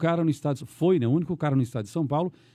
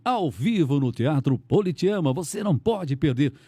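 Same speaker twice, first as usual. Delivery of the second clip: slow, stretched announcer read; radio show promo; slower than usual. Shown as a demonstration. Host showing how to call a live show, announcer voice. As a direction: invite listeners to a live concert. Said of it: "como é que você chama?".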